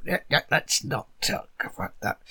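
hushed, unvoiced aside; whisper. Nikki hushing a visitor in front of other staff, whispering. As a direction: whisper it so the staff won't hear. NPC hushing talk of boss.

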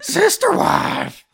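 high slow hick voice. Acted. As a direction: drawl it like a backwoods hick. Country stereotype joke.

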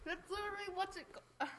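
talking through jelly beans; mouthful of candy, chewing; mouth full. Real, not acted. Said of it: "my mouth is full of jelly beans".

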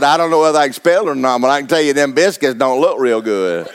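laughing through the words, fast at first; chuckling while telling the biscuit story. Real, not acted. Preacher retelling a joke about his wife, laughing.

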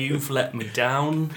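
dad's phrase in an Australian accent; Australian accent attempt. Shown as a demonstration. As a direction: try Australian through a dad's saying. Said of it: "I think of things my dad says".

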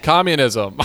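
mock Russian accent on one word; hammy Russian-accented word; Russian accent attempt. Shown as a demonstration. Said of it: "What's a Russian word that you could say".

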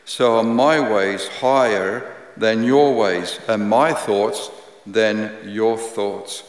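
solemn Bible reading; scripture reading. Acted. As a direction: read the prophet's words with weight. Reads Isaiah aloud.

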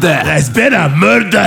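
slow, badly faked Scottish accent. Shown as a demonstration. Admitting he can't do it, slow bad Scottish accent. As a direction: drag out a clumsy Scottish accent. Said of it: "I'm the worst at doing Scottish accent".

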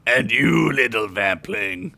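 slow, menacing vampire lord; dark lord. Acted. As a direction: turn to him with cold threat. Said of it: "the Dark Lord said".

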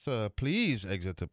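slow, proper English request; English accent. Retold or imitated. English secretary asking golfers to go, slow English accent. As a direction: ask them out slowly in an English accent. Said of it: "This guy was English".

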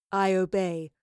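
understated growl of obedience. A narrator's reading. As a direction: growl your assent to a goddess. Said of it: "growled Boudica".

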